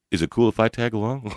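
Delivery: quoting the star through a laugh; laughing quote. Retold or imitated. Telling a friend what the rock star asked, laughing. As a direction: laugh while retelling his words.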